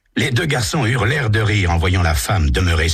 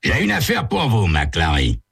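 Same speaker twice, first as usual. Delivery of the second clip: higher, brisk chief's voice; police chief Daniels; 4 semitones higher than usual. Acted. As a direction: hand over a case matter-of-factly.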